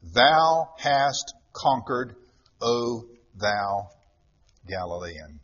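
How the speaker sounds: slow, falling into a hushed last gasp; a dying emperor conceding defeat, slow then hushed; dying emperor's exclamation. Acted. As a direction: draw out the defeated cry, then sink low.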